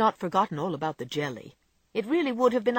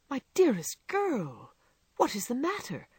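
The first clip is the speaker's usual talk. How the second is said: alarmed cry; 6 semitones higher than usual. A narrator's reading. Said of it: "cried John".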